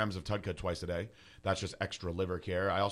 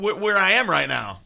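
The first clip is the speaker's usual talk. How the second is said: higher, louder dazed clerk voice; mock clueless clerk; 8 semitones higher, 9 dB louder than usual. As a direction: act lost on purpose. Mocking a clueless agent.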